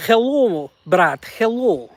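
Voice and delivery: slow mock Russian greeting; lightly put-on Russian accent, slow. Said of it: "Russian accent's a little bit harder".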